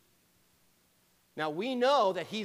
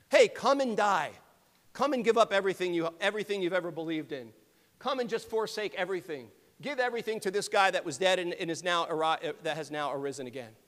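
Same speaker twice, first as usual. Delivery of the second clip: louder, rushed hammed-up job ad; mock recruiting pitch; 3 dB louder, faster than usual. Pastor parodies a recruitment ad for disciples, mock sales pitch. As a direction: sell a miserable job like a pushy recruiter. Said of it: "a job description that says".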